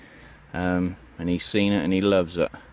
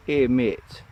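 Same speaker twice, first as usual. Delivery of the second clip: a lightly put-on Yorkshire accent, slightly higher; attempted Yorkshire accent; 5 semitones higher than usual. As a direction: try a Yorkshire greeting, not quite landing. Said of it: "So this is meant to be a Yorkshire accent".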